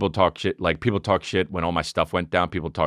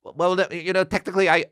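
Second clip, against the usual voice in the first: mocking whiny comic; 10 semitones higher than usual. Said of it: "they're like".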